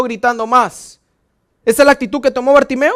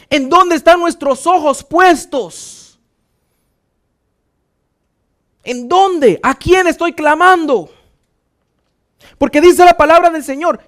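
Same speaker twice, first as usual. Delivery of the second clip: higher, forceful preaching to the congregation; predicación enérgica; 3 semitones higher, 4 dB louder than usual. Real, not acted. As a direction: press each question on the congregation. (prédica enérgica, en voz alta)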